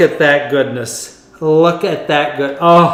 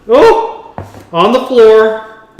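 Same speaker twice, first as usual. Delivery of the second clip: surprised spill; 4 semitones higher, 5 dB louder, much slower than usual. Real, not acted. Spilled sugar on floor.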